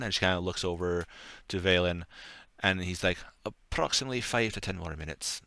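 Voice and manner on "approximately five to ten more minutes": slipping into a faint Scottish lilt as the butler; accidental Scottish accent. Acted. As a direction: butler line that drifts Scottish by mistake. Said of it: "Oh, that was a Scottish accent".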